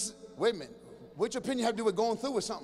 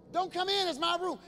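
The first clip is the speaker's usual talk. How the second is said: put-on snotty teen; 7 semitones higher than usual. Teen guarding room.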